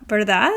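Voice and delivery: "Verdad?" with a clear upward lift; rising tag. Shown as a demonstration. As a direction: tag it on as a checking question. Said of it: "our voice also goes up at the end".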